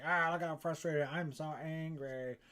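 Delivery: lightly voiced sulking baby, drawn-out ending; self-mocking little-kid tantrum; mock whiny baby. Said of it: "like a little baby sometimes".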